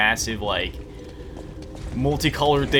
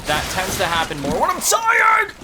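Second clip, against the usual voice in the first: shout; 7 semitones higher, 4 dB louder than usual. Real, not acted. Mock scolding self.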